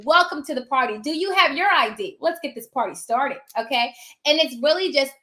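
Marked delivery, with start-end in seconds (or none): 0.0-3.4 high, loud sing-song hostess greeting; mock bubbly welcome. Notary greeting a pushy realtor, loud and bubbly. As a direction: greet them like the life of the party. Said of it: "I'm like".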